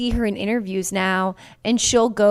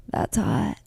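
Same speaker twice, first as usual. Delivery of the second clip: Paris Hilton; 10 semitones lower, 5 dB quieter than usual. Retold or imitated. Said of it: "Paris Hilton".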